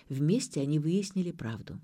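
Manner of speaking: usual speaking voice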